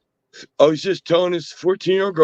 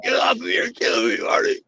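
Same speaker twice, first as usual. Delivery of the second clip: high, squealing mock cry for help; mock shriek; 9 semitones higher, 3 dB quieter, faster than usual. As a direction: shriek like you're being attacked. Acting out streamer being attacked.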